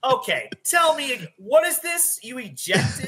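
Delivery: retelling how he would grill the caller in disbelief; disbelieving dispatcher. Retold or imitated. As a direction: pelt the caller with astonished questions. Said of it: "that's when I would just".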